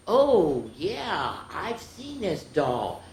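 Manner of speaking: drawn-out, knowing retelling; knowing reply. Retold or imitated. Telling the neighbor she knows the doll, knowing. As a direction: stretch it out like you know a secret.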